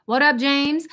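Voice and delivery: playful put-on gangster greeting; lightly hammed-up street-slang hail; a hint of gangster swagger; mock gangster. Shown as a demonstration. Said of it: "I went ghetto again".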